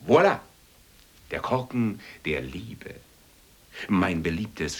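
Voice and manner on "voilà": loud, high showman fanfare; showman announcement. Acted. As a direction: announce it like a circus ringmaster.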